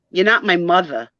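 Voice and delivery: put-on "mother" as "muvva" in a New Jersey accent. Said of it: "this accent, even the kids that work with me".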